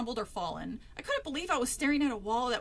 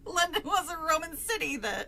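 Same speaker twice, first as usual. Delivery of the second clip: British accent; 5 semitones higher than usual. Shown as a demonstration. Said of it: "can't stick to a goddamn British accent".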